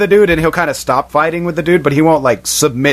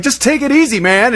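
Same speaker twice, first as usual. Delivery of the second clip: mock pleading; 10 semitones higher than usual. The Dude pleading.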